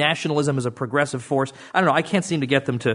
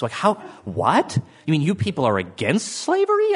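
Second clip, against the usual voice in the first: mock baffled outrage; 3 semitones higher than usual. Mocking progressives' outrage.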